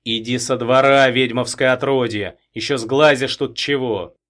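loud angry chasing-off shout; furious yelling. Acted. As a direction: drive him out of the yard. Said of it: "Окончательно распалившись".

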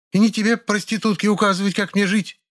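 high, cutting insult; scornful old woman. A narrator's reading. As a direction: slap her down. (презрительная отповедь)

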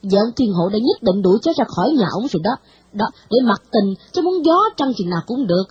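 lightly voiced stern grandmother shaming the girl; stern old lady scolding. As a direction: chide the girl like a strict old matron. Bà Thị scolds Anh Nguyệt.

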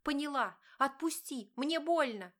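high, loud, fighting back tears; tearful scream. A narrator's reading. Wife answering husband who grips her arm, tearful cry. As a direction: cry it out in pain and fear. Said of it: "закричала Диана, глотая слёзы".

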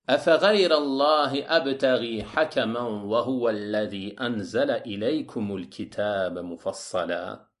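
solemn verse recitation, settling downward; Quran recitation. Acted. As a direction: recite scripture with long, sustained vowels. (récitation coranique solennelle)

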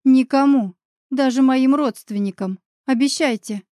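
firm urgent plea for silence; insistent demand. Acted. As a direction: hammer home the demand. Insisting on secrecy.

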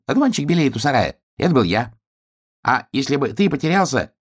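high, eager little-flower voice; small dandelion voice. Acted. Dandelion boasts to the piglet, high and eager. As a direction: chatter proudly like a tiny flower.

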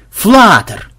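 high, loud cry of discovery; calling out. A narrator's reading. Spotter shouting to the squad about Flutter, loudly. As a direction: sing out the sighting, drawn out.

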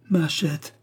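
high wailing cry over a lost hatchet; boy's cry. A narrator's reading. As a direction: wail it out, lamenting. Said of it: "s'exclamait-il".

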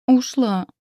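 high, loud pitiful whine; plaintive whimper. A narrator's reading. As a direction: whimper it like a sulking old woman. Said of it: "жалобно проскулила".

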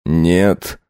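a flat, unbothered no; calm husband. Acted. Husband calmly refuses his wife. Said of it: "до безобразия спокойно ответил".

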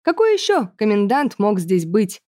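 ordinary delivery, nothing marked

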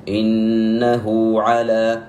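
إنه على with the hu of إنه drawn out; correct recitation. Shown as a demonstration. Teacher returning to the right reading, slow chanted recitation. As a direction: stretch the hu in إنه على slowly. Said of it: "خطأ".

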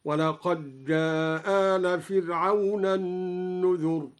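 ولقد جاء with the د merged into the ج, said as a doubled ج; recited with idgham. Shown as a demonstration. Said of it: "هكذا". (إدغام الدال في الجيم في ولقد جاء)

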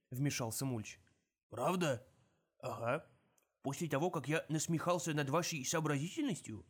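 sly dwarf, mocking; gruff gravelly dwarf voice. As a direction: bait them slyly.

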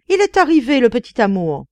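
high gushing exclamation, easing down; excited cry. A narrator's reading. Duchess greeting her little darling, excited cry. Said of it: "s'écria la duchesse".

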